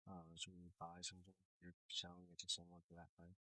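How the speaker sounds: choppy, faint line audio; bad connection. Real, not acted. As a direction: voice breaking up on a bad call. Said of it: "You sound really choppy".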